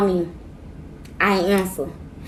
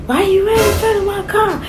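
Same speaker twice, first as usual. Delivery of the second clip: startled yelp; 11 semitones higher than usual. Retold or imitated. Confronting the man who stepped in front.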